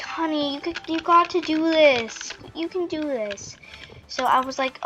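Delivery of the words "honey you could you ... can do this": lightly voiced mom, a bit higher; encouraging mom. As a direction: gently coax a child, pitch lifted. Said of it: "My mom was like".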